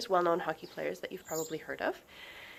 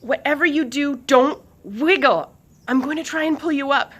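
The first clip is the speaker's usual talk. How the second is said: loud, higher urgent call; 8 semitones higher, 10 dB louder than usual. A narrator's reading. Swift calling down the stairs to Lucas. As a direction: call it down the stairs over the wind. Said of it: "Swift called down the steps".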